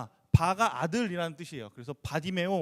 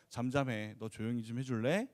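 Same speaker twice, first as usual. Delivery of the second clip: soft, lower polite hushing; polite request; 9 semitones lower, 6 dB quieter than usual. Retold or imitated. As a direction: ask gently, almost too nicely. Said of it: "이렇게 얘기했을까요?". (낮고 부드럽게 공손히 부탁하는 말투)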